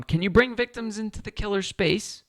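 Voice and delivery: a sudden high British accent slipping in. Real, not acted. Solo board gamer musing on a rule, slipping into a British accent. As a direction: ask the rules question in a British accent without meaning to. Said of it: "I don't know why I'm turning British".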